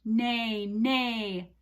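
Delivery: drawn-out spoken neighs; horse neigh. Shown as a demonstration. Teacher showing children the horse sound, neighing. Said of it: "What's the horse say?".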